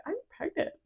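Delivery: soft, high, laughing "I'm pregnant"; half laugh the news out; giddy. Retold or imitated. Telling Carlos over the phone, giddy and laughing.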